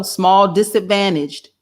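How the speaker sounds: slow, scornful repeat of small disadvantaged; mocking repeat. Real, not acted. Host mocks the phrase from the article, slow and scornful. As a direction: drag out small disadvantaged with disdain. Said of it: "And here we go".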